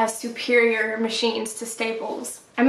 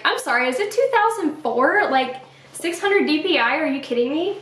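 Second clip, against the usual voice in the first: mock incredulous; 5 semitones higher than usual. Mocking the clerk's offer.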